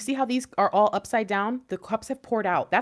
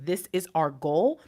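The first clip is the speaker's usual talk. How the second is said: slow, measured statement; clear, concise; 4 semitones lower, slower than usual. Acted. Divine Feminine stating the goal to counterpart, clear and concise. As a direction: state it plainly and deliberately. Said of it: "you being very clear, concise, and saying".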